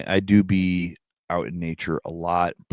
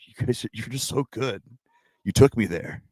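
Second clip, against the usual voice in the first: overconfident gush; 4 semitones higher than usual. Retold or imitated. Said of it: "having this kind of level of confidence".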